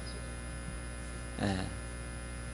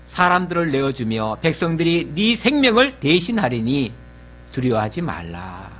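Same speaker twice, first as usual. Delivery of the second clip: scripture reading; 2 semitones lower than usual. Acted. Pastor reads God's promise to his congregation, solemn. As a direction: read the promise as holy words.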